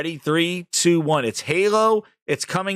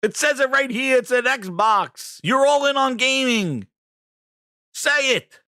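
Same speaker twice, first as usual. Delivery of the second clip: frustrated pleading; 6 semitones higher than usual. Retold or imitated. Yelling at Satya for failing.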